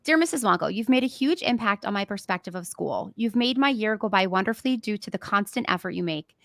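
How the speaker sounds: earnest, touched reading of a student letter; reading a letter aloud. Real, not acted. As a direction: read it out as if holding back tears.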